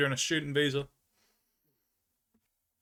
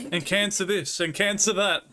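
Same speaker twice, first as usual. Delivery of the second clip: laughing while mimicking his cancer talk; sing-song mockery of his chat-up lines; laughing mock rattle of cancer this and that; 4 semitones higher, slower than usual. Mocking the Frenchman's chat-up talk.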